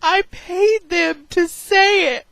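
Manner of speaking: high, slow, lightly voiced teasing mom; a hint of a mom gloating; mom's voice. Mom admitting the prank to her daughter, lightly high and slow. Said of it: "And my mom was like".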